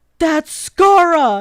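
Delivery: sudden, loud, high, excited, startled exclamation. Retelling a friend spotting someone at a convention: imitating a loud exclamation. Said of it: "really loud".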